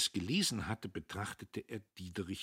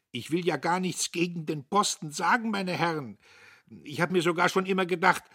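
put-on higher, loud, giggly drunken rambling; tipsy giggling; 12 semitones higher, 10 dB louder than usual. The drunk editor lectures the gentlemen: tipsy giggling. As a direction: babble on tipsily, giggling between words. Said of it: "Er schwankte auf seinem Sitz und kicherte ohne Grund".

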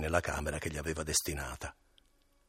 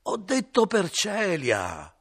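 higher, louder, slow insistent shout; innkeeper shouting; 14 semitones higher, 9 dB louder, much slower than usual. Acted. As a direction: shout it right in his face. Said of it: "gridò questo sul viso di Renzo".

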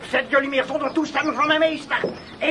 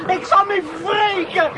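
vengeful shout; 3 semitones higher than usual. Acted. Steward's vow while being dragged.

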